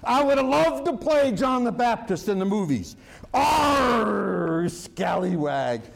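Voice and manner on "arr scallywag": growled pirate Arr, lightly done; a hint of a pirate captain. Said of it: "that's a little Barbosa thrown in there".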